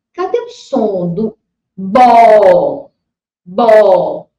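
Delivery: "bó" stretched long and loud; syllable sounded out. Shown as a demonstration. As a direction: sound out "bó" slowly for a child. Teacher sounds out syllable for child. ("bó" bem alongado e forte)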